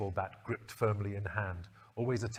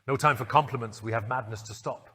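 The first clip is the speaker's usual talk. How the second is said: urging; 5 dB louder than usual. Acted. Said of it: "the Doctor urged".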